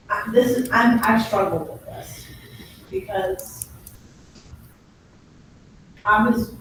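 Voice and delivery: talking around a cough drop; cough drop in mouth. Real, not acted. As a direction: speak with a lozenge in your mouth. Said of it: "I have a cough drop in my mouth".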